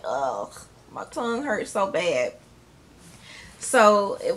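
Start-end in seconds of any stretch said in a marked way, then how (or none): 0.1-2.3 soft pained whine, tongue sore; quietly whining in pain. Retold or imitated. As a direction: complain softly, as if it hurts. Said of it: "I'm like".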